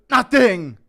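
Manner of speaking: high loud defensive yell; teen yelling nothing to parents; teen yelling back. Retold or imitated. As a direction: shout back like a caught teenager. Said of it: "And you go".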